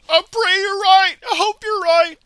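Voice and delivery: high, loud whiny mock fear; mocking fearful voice. Mocking fearful followers who pray he's right. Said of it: "And you're afraid".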